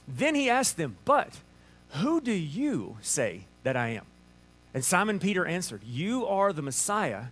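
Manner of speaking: measured Bible reading with pauses; scripture reading. Acted. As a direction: read God's word aloud, unhurried. Reads scripture aloud.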